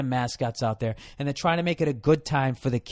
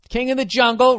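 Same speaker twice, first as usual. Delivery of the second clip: "King of the Jungle" pitched high and louder, "Jungle" stretched; hammed-up; 7 semitones higher, 4 dB louder than usual. Comic mocking Tarzan, booming it out high. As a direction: announce "King of the Jungle" like a grand movie trailer.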